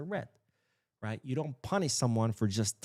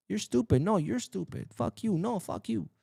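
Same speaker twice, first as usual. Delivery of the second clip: mock insult trade; 8 semitones higher than usual. Mock playground insult exchange.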